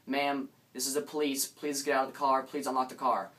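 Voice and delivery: a hint of a cop giving urgent orders; police officer's voice. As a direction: call out firmly like an officer. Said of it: "there's a voice that says".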